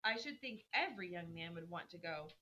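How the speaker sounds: measured classroom story reading; story read-aloud. Acted. Teacher reads the chapter aloud to the class, storytelling.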